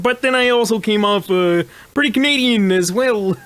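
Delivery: light Canadian accent; slipping into a Canadian accent. Real, not acted. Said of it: "I did a Canadian accent in this costume, and now I can't get out of it".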